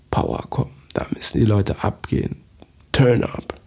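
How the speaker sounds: hushed, breathy hype; whispering. Real, not acted. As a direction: whisper it with urgency. Hyping peak-time energy.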